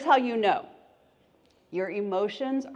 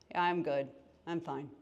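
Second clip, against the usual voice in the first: softer, deflated I'm fine; unconvincing quiet reassurance; mock fake fine; 3 semitones lower, 7 dB quieter, faster than usual. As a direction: say you're fine but sound like you're not. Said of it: "somebody been like".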